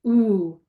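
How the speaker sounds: a drawn-out "ooh" held long; long ooh sound. Shown as a demonstration. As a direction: stretch "ooh" as a long vowel example. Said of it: "It could be a long sound".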